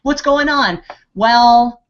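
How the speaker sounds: high, chirpy put-on voice; high mock voice playing out a chat with Melody; mock high-pitched voice. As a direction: squeak it out in a high mocking tone. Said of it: "It's like".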